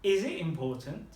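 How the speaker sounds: "Is it important?" with a clear rise at the end; rising question tune through to the end of "important"; questioning intonation. Shown as a demonstration. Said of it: "make it sound like a question".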